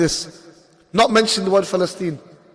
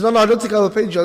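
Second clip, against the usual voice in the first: quick denial; 3 semitones higher, much faster than usual. Retold or imitated. Bus driver voiced in story.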